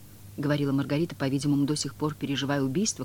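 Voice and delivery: usual speaking voice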